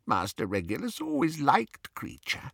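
soft, muffled, faltering recollection; rocking elf stalling before the painful part. A narrator's reading. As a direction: hesitate as the memory hurts. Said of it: "his voice was muffled".

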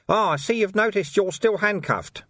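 put-on sly, amused older man; dry knowing voice. A narrator's reading. Mysterious voice.

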